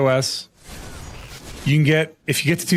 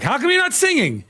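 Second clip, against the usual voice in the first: playful call; 13 semitones higher than usual. Retold or imitated. Calling to passing kids.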